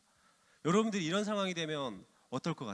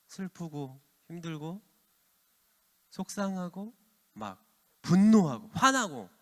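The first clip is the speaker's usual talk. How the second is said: building emphatic list; 6 dB louder, slower than usual. Real, not acted. Listing feelings to children.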